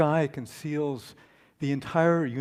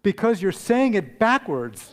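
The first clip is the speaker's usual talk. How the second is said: talking cow; 7 semitones higher, 6 dB louder than usual. Acted. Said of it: "And the cow says".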